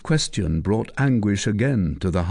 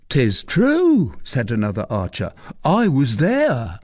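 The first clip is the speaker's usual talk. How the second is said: eager archer; 4 semitones higher, 3 dB louder than usual. Acted. Archer backing the recluse, eager. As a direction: vouch for her story.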